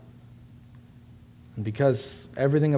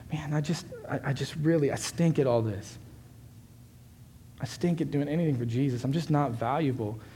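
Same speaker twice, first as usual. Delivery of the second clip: retold dejection; 2 semitones higher, 4 dB quieter than usual. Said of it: "he just felt horrible".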